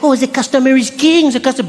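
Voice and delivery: high, gushing, French-accented mockery; mock fawning American clerk. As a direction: parody servile customer worship. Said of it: "You know, in America, it's like".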